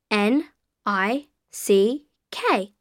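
letter by letter; spelling it out. Shown as a demonstration. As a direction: spell each letter clearly. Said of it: "can you spell that for me?".

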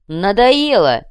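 loud, sharp, fed up; angry bark. Acted. Leshy losing patience with Krokhin, loud angry bark. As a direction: snap it out in rage. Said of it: "рявкнул Леший".

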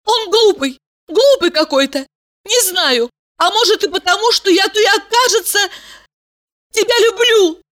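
high, rushed confession; girl blurts out that she loves him, high and hurried; babbling hastily. A narrator's reading. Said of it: "торопливо залепетала".

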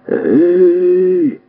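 high, loud hail from cover; call out. Acted. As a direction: call out to the police. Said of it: "гукнув Зафод".

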